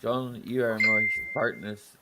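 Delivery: low mock Welsh accent. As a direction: put on a Welsh lilt, low and soft. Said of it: "Didn't you get my Welsh accent?".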